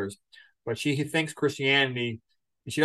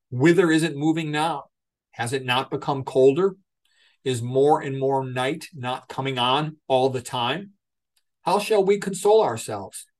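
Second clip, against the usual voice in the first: dramatic oratorical reading. Acted. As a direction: proclaim it like a prophet to a crowd. Dramatic reading of Nietzsche quotes.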